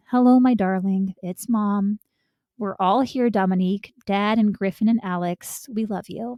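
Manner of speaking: usual speaking voice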